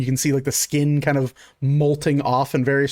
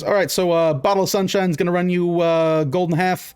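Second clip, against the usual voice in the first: lightly raised, chatty waiter voice; a hint of a busy diner waiter rattling off the bill; halfling waiter; 3 semitones higher than usual.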